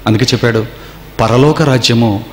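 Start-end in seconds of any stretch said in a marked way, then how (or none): 1.2-2.2 slow, weighty Bible reading; preacher slowly reading scripture to the congregation; solemn scripture reading. Acted. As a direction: read the verse slowly, word by word. Preacher repeats scripture verse.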